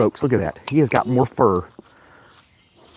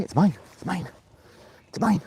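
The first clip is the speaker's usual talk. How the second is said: teasing sing-song; 9 semitones higher than usual. Real, not acted. Tug of war teasing dog.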